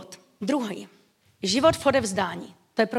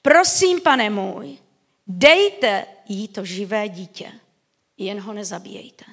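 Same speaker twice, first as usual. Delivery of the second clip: pleading mother; 2 semitones lower than usual. Retold or imitated. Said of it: "zvolala ke králi".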